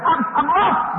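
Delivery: retold hysteria. Preacher voicing the dying woman refusing comfort, hysterical. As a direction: stammer it out, imitating despair. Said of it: "don't get hysterically".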